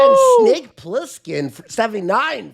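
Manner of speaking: high shouted donation callout; hype shout. Real, not acted. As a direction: call it out like a hype man. Hyping donations.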